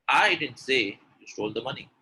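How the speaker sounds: front-load the weight on "I"; emphatic "I", the rest tailing down; stress on I. Shown as a demonstration. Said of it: "If I stress on I".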